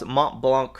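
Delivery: Mont Blanc in a lightly put-on French accent, nasal vowels. Crossword host reading a clue to chat, mock French accent. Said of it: "excuse my terrible accent".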